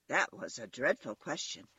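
ordinary delivery, nothing marked

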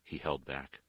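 usual speaking voice

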